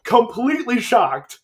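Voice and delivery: laughing through the words; can barely talk for laughing. Real, not acted. Laughing while retelling the scene.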